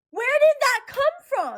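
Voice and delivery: surprised. Real, not acted. Finds a broken earring.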